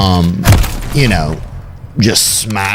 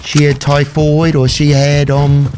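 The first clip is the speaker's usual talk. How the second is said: put-on lightly held British accent, slow; 3 semitones higher, slower than usual. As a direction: keep a half-hearted British accent going. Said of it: "I don't know how British to get".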